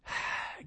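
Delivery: soft disappointed sigh; demo sigh. Shown as a demonstration. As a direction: let out a wife's weary sigh. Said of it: "give that sigh or that eye roll".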